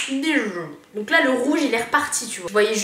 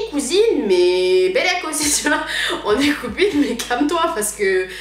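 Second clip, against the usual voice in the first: getting a bit heated; 4 semitones higher, 4 dB louder than usual. Retold or imitated. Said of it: "je commence à m'enflammer un petit peu".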